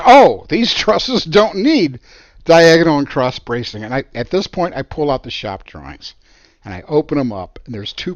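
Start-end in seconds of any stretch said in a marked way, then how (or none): 0.1-3.8 mock smug excuse. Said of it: "Schmo is now talking to a building inspector".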